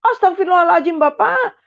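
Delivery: high, rising alarmed cry; mother's cry. Retold or imitated. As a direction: cry out to stop him. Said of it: "langsung mama teriak". (teriakan ibu yang panik)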